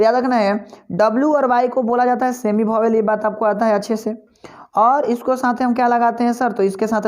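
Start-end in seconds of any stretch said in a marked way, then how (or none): 2.9-4.2 whispered aside. Real, not acted. Teacher aside.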